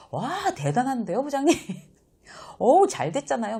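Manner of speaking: high, loud, slowed exaggerated wonder; over-the-top admiration. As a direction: gush way too much at the boss. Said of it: "감탄하고 좀 오버하고 과장되게". (부장님께 과장되게 감탄하는 직원)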